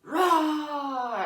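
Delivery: high, loud play roar; imitated toddler roar. Toddler showing parent he means dinosaur, loud mock roar. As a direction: roar like a little kid being a dinosaur. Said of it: "then he goes".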